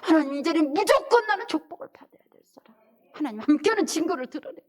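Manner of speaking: loud, high declaration to God; bold declaration. Shown as a demonstration. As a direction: proclaim it with full conviction. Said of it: "저처럼".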